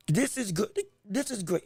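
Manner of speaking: hiccuping between words; breath catching on hiccups. Real, not acted. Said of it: "I have the hiccups".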